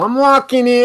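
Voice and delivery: loud, high New York gangster yell; Italian gangster quote. Retold or imitated. Host quoting the movie line, loud Bronx yell. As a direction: bark it like a Bronx cabbie. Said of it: "for everybody out there that hears this go".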